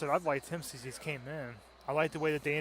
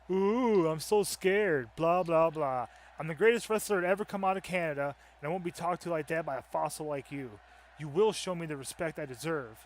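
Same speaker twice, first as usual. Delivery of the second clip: cocky Canadian wrestler trash talk, a bit louder; arrogant wrestler promo; 5 dB louder than usual. Acted. Canadian wrestler mocking an old rival, lightly voiced cocky promo. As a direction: sneer it out like a smug champion.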